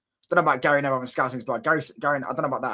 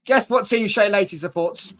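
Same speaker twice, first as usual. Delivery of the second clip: slow, high, louder taunt; teasing quiz call; 6 semitones higher, 4 dB louder than usual. Real, not acted. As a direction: draw the question out to goad the chat. Teasing chat, question repeated.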